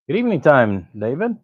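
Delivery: high, loud sing-song hello; playful greeting. Acted. Greeting a viewer in the chat.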